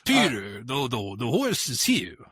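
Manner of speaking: lightly put-on French accent. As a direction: try the catchphrase with a hint of French. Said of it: "you need to do a French accent".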